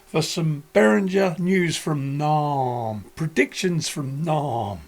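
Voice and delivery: slow, drawn-out show intro; announcer voice. Acted. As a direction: announce it like a presenter.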